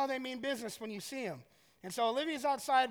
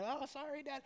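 put-on soft, raised little-kid voice; apologetic daughter; 4 semitones higher, 10 dB quieter than usual. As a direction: imitate a child's quick sorry to dad. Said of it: "waiting to see her head just come".

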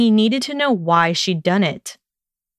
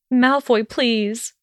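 begging; 3 semitones higher, much slower than usual. Acted. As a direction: beg him, letting it drop. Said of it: "she begged".

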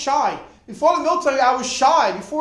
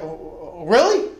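surprised; 4 semitones lower, slower than usual. Retold or imitated. The preacher surprised the soldier agreed, startled rise. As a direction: caught off guard by the yes. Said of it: "The preacher was like".

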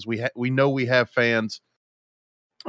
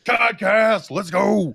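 excited cheer; 10 semitones higher, 3 dB louder, much slower than usual. Real, not acted. Cheering the podcast start.

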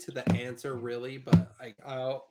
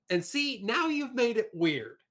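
exasperated dad; 8 semitones higher, 3 dB louder than usual. Retold or imitated. Dad's reply, raised pitch.

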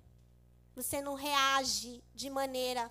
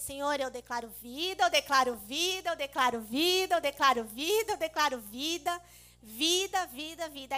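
louder fervent prayer declaring life, a preacher's proclamation; imitating the apostle's prayer; 4 dB louder than usual. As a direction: copy the apostle, calling out each vida louder. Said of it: "Eu vou imitar a apóstola".

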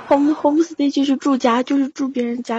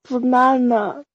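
hesitant copy; 2 semitones higher, slower than usual. Shown as a demonstration. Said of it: "来，banana".

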